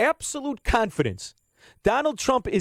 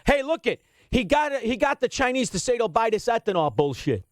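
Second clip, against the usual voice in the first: mock cheering; 3 semitones higher than usual. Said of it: "And you're cheering".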